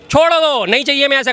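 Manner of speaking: sharp, high, loud brush-off; loud dismissal. Real, not acted. Debater rejecting a coalition jibe, loud dismissal. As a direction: dismiss it loudly, pitch jumping up.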